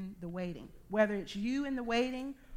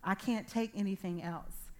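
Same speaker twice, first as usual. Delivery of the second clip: weary inner plea; 4 dB quieter, slower than usual. Retold or imitated. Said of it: "I'm thinking to myself".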